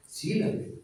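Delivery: whispered, intense aside; hushed emphasis. Acted. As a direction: breathe it for weight. (susurro enfático)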